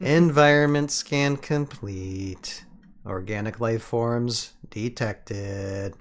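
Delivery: slow, even machine readout; robot voice. Acted. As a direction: read it like a lazy robot. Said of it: "It sounds like a little lazy robot".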